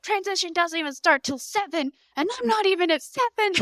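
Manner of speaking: high, know-it-all correction; mock-smug, set the nurse straight; smarty pants. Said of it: "being the smarty pants that I was".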